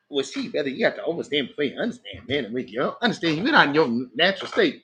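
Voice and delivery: soft, hurried run-around patter; mock evasive sage. A brother dodging a question with overstanding, mock evasive patter. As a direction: mumble pseudo-wise doubletalk as a send-up.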